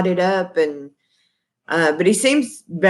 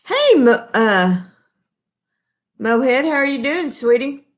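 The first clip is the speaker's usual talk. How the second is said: much higher, sing-song hello to a son; high sweet greeting; 6 semitones higher than usual. Real, not acted. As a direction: coo his pet name up high. Calling out to her son.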